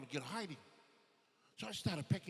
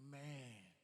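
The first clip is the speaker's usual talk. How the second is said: soft, low appalled aside; hushed dismay; 5 semitones lower, 9 dB quieter than usual. Acted. Boy watching friend lose dinner, quietly appalled. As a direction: drop it low and quiet, stunned.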